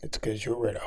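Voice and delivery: whispering. Real, not acted. Teasing aside about bleach.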